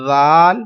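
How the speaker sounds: زال with a soft th as in "this", no whistle; lisped, unwhistled first sound in زال; soft dhal. Shown as a demonstration. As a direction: start زال gently with tongue tip to teeth. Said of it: "سیٹی کی آواز سختی نہیں نکالنی".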